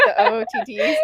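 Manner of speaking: high-pitched sorority girl imitation; sorority TikTok girl. Imitating sorority TikToks for friends, high girly mimicry. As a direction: mimic a sorority girl's video intro. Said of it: "have you seen the sorority TikToks".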